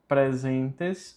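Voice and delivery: "presentes" with a plain E in "pre"; silent A. Shown as a demonstration. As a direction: say "presentes" without sounding the A. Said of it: "o A mudo". ("presentes" com o A mudo)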